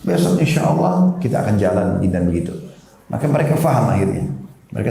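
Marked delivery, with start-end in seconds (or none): 0.0-2.0 put-on higher-pitched coaxing of a child; retold parental sweet-talk, pitched up; coaxing promise. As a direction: coax with a lifted voice. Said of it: "Kita rayu supaya mau".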